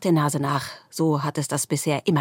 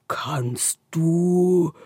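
shy whisper. A narrator's reading. The darkness starts to ask shyly, whispering. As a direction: begin timidly under the breath. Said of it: "beginnt die Dunkelheit".

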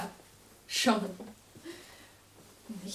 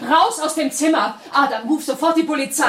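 loud order; 3 semitones higher, 7 dB louder than usual. Acted. Ordering him out.

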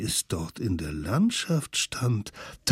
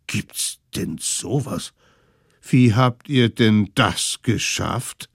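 put-on slow, marvelling elderly voice; a lightly voiced astonished old one; amazed old folks; 3 dB louder than usual.

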